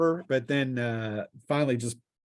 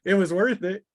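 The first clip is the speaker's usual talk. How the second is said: laughing; 6 semitones higher than usual. Real, not acted. GM laughs at charge.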